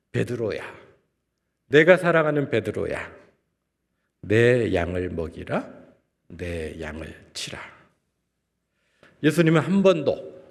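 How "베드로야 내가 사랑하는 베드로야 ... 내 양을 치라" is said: smiling tender call. Retold or imitated. Jesus smiling at Peter, fondly and unhurried. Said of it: "미소 지으시면서 말씀하셨을 것 같습니다".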